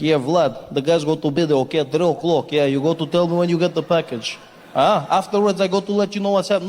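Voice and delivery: put-on heavy Russian accent on a phone call; Russian guy on phone with Vlad, in a Russian accent. Russian guy talking to Vlad in a Russian accent. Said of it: "he was like".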